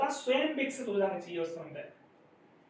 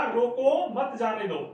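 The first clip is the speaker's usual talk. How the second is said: loud rising "रोको", then a break; "रोको" held up before the falling finish; pause after रोको; 4 dB louder, slower than usual. Shown as a demonstration. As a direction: lift "रोको", then let the rest fall. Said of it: "रोको के बाद में यति हुई है".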